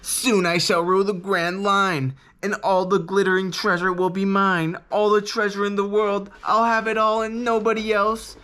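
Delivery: gloating pirate villain. Retold or imitated. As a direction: ham up a greedy pirate captain's gloating. Buggy's gloating speech, retold.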